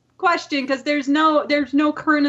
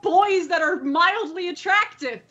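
higher-pitched, dramatic complaint; playful anguished protest; 4 semitones higher than usual. Real, not acted. Podcaster agonizing over a fuck, marry, kill question, playful protest. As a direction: wail it a little, mock-tormented by the choice.

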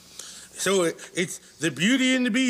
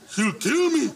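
laughing; 6 semitones higher than usual. Real, not acted. Laughing repeat of worry.

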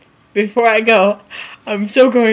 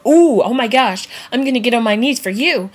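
swooning women; 3 semitones higher than usual. Retold or imitated. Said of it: "gets all the women to go".

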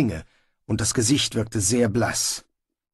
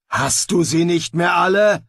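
incredulous; 6 semitones higher, 5 dB louder than usual. Acted. Sergeant scoffs at Snibral.

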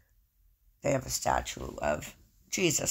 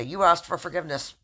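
loud dismissal; 4 semitones higher, 7 dB louder than usual. Pretend. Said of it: "God's not gonna say".

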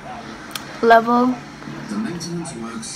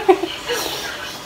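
high, soft, voiceless laughter; helpless laugh; 11 semitones higher, 5 dB quieter than usual. Real, not acted. Vlogger reacting to spicy bite, helpless laugh. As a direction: laugh weakly through the burn.

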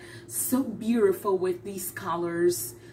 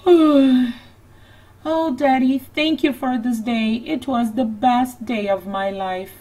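put-on happy little girl; 3 semitones higher, 7 dB louder than usual. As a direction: thank daddy like a grateful little girl. Tired Annie thanks Daddy.

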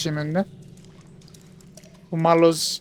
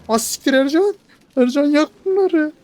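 much higher, louder yells at a buddy; excited yelling; 9 semitones higher, 4 dB louder than usual. Real, not acted. Player yells at companion Ercan to burn the spiders, high excited shout. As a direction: shout the orders in a rush.

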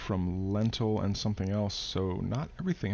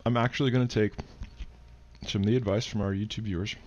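mouth full. Real, not acted. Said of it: "I'm chewing a bite of toast".

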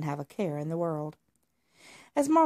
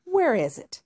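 scornful demand. Acted. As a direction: brush off the idea, then demand. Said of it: "Marmalade said".

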